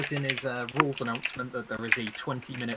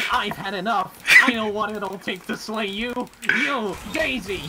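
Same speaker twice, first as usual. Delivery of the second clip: hammed-up nasal anime hero; 7 semitones higher, 5 dB louder than usual. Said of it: "preparing my best nasal anime voice".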